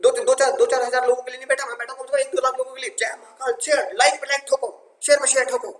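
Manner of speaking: high-pitched rousing rant, like the maths teacher; mock fierce form. Teacher imitating the maths sir to demand shares, mock-fierce rallying cry. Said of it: "ऐसा मैं रुद्र रूप धारण कर लूँ".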